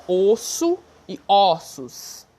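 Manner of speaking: slow "osso e ossos", first "oh", then "aw"; closed then open O. Shown as a demonstration. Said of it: "osso é fechado".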